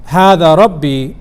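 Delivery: "Hada Rabbi" lifted into a rising question; rising rhetorical question on "Hada Rabbi"; questioning tune. Shown as a demonstration. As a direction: pose "Hada Rabbi" as a challenge to the listeners. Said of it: "it's actually a question".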